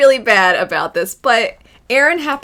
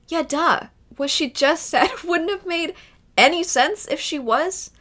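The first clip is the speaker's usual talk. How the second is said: sarcastic duh; 8 semitones higher than usual. Retold or imitated. Mocking Eren's nonsense reply.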